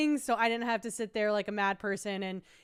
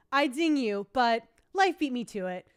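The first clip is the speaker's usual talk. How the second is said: mock punchline delivery; 4 semitones higher, 4 dB louder than usual. Reads Zingbot's zing, punchline.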